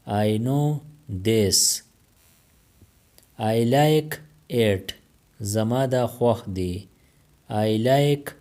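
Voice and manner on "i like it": stretched-out classroom model; slow it right down for the learners; very slow, careful. Shown as a demonstration. Teacher modelling English for Pashto learners, very slow. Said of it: "teacher repeats the phrase twice".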